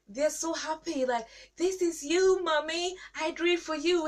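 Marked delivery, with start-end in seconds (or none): 1.5-4.1 put-on very high, eager little child. Child handing parents a drawing, high and delighted. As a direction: squeal it like a proud toddler.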